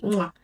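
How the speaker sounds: smacked kiss sound; chef's-kiss mwah. Real, not acted. Vlogger praising an actor's performance, chef's-kiss mwah. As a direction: blow an approving kiss with a mwah.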